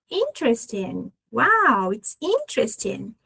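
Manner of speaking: "Interesting" as IN-tres-ting, stress on IN; strong first syllable. Shown as a demonstration. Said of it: "A gente coloca ela bem forte".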